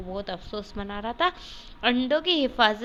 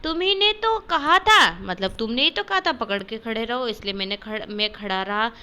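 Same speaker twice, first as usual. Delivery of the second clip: put-on defensive boy; 4 dB louder than usual. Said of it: "Shyama को बोला".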